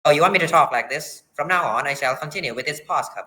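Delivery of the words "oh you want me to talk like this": put-on phony old-time TV announcer voice; lightly put-on 1950s announcer accent. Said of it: "in this very phony, uh, nineteen fifties T V announcer accent".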